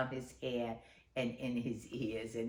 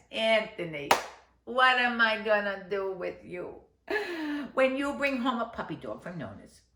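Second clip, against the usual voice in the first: scolding mother; 4 semitones higher, 4 dB louder than usual. Acted.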